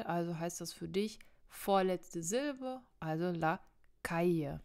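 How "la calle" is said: calle stressed at the start, on cal-; stress on first syllable. Shown as a demonstration. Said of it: "Auch wieder am Anfang betont". (calle am Anfang betont)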